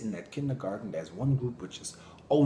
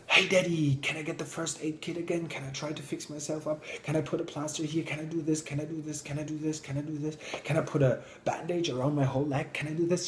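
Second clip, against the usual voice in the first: put-on high, eager child asking over and over; a girl pestering her daddy, lightly voiced; eager little girl; 4 semitones higher, faster than usual. Eager girl asks her dad.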